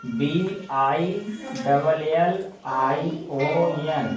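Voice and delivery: slow spelling. Shown as a demonstration. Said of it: "बिलियन पढ़ते हैं क्या?".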